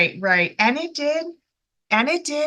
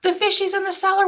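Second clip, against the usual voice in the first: put-on higher, rushing child's plea to mom; panicky kid calling mom; 5 semitones higher than usual. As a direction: gabble it out fast like a scared kid on the phone. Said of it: "calling his mommy to say".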